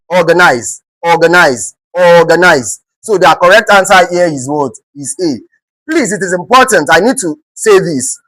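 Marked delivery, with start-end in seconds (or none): 0.1-2.8 "organize" with the weight on "or", falling after it; stress on first syllable. Shown as a demonstration. Teacher modelling the word for grammar students, first-syllable stress. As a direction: lean on the "or" of "organize". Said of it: "option with the O R being stressed".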